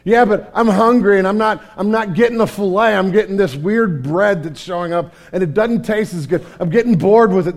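mock whining complaint; whiny. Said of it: "they get really whiny and go".

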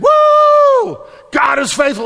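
high, loud cheering whoop; a joyful yell of celebration; excited whoop. Acted. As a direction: shout it like a victory. Celebrating the miracle baby.

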